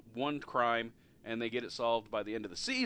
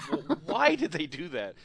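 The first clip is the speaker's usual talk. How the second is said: tag; 5 semitones higher, 5 dB louder than usual. Retold or imitated. Retelling own baffled reaction to casting.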